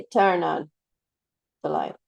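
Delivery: "Turn on the light" with Turn stressed and falling; the wrong way to stress turn on. Shown as a demonstration. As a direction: hit Turn hard and keep on flat. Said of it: "You're not going to say".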